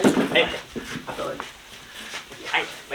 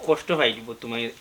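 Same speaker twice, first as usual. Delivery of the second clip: low, subdued and slowing; sorrowful warning; 5 semitones lower, 5 dB quieter than usual. Acted. Warning that Motoi will be hurt by the London wedding, sorrowful. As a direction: say it heavily, dropped in pitch and volume.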